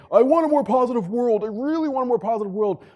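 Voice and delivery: high, loud, whiny mocking voice; pleading in a high mock whine; mock whiny wish. Mocking people who only wish for a better world, high whiny voice. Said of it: "it's not enough to say".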